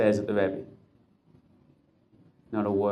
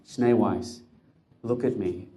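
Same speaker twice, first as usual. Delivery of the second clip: gentle plea; slower than usual. Acted. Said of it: "Could I rephrase that a little?".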